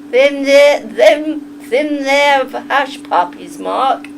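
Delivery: slow, halting Southern drawl, run together; Southern accent. Shown as a demonstration. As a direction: have a stumbling go at a Southern accent. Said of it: "I'm trying to learn a southern accent".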